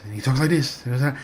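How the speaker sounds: a light imitation of Kenny's sing-song promo cadence; mock sing-song promo impression; singy promo voice. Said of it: "the, like, the singy promo".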